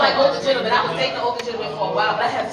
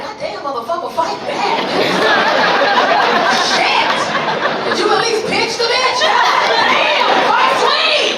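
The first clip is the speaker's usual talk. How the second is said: loud, very high laughing holler; sideline yelling; 9 semitones higher, 8 dB louder, slower than usual. Acted. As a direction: cheer him on from the side. Yelling at son's fight.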